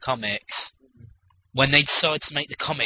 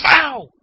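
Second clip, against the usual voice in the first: sudden high pained yelp; mock yelp; 12 semitones higher, 7 dB louder than usual. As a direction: yelp like you got hit. Getting hit.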